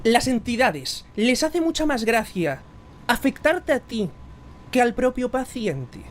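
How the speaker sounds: slow, drawn-out dramatic question; movie-style question. Shown as a demonstration. Interviewer to guest, slow cinematic question. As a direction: spell it out slowly like a film line. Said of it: "te va a sonar de muchas películas".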